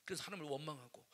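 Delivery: normal talking voice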